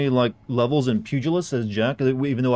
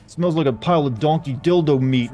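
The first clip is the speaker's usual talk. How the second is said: angry nerd rant; 4 semitones higher, 3 dB louder than usual. Retold or imitated. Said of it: "yell them out in that, you know, strong, authoritative voice".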